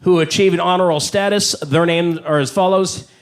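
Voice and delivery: slow, deadpan principal reading names; school principal. Retold or imitated. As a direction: read the honor roll like a bored principal. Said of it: "He'd be like".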